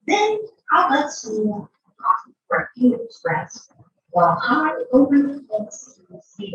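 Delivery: lively sing-song storybook read; playful circus-barker storytelling; reading to a child. A narrator's reading. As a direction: read the rhymes with showman flair.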